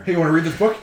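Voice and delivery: bright, high, playful pitch; goofy high offer. Pretend. Mock offer of devil book.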